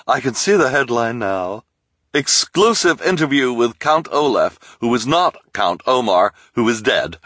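high, loud excited headline read; gushing reporter. A narrator's reading. Reporter gushes over her exclusive, excited. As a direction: announce the headline like a scoop.

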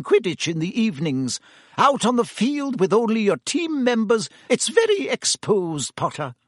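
a strict professor laying down the law; stern professor. A narrator's reading. McGonagall voiced, firm.

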